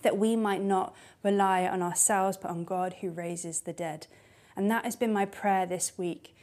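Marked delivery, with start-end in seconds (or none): 0.0-4.1 quiet sincere reread. Real, not acted. Preacher to church, rereading the verse, softly and sincerely. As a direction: let the verse land gently. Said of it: "like a flicker of light came on".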